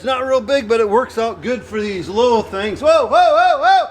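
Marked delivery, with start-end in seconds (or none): 2.8-3.9 raised voice, calling out whoa. Real, not acted. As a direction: call out to stop the driver. Guiding machine into tight shed.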